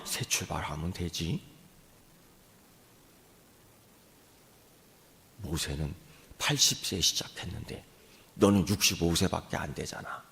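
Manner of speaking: low, soft, reassuring; quiet voice of encouragement; encouraging inner voice. Retold or imitated. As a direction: speak it gently like God comforting. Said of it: "용기를 주는데".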